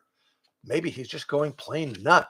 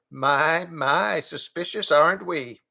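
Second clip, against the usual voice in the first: teasing goat voice; wry goat; 4 semitones higher than usual. Acted. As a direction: tease like a prim goat.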